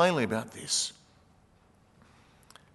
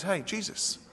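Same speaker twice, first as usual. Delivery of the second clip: raised, insistent protest; Peter rebuking Jesus; 5 semitones higher, 3 dB louder than usual. Retold or imitated. Peter pulling Jesus aside to scold him, insistent. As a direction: plead with him to stop talking nonsense. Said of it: "Peter takes him aside and says".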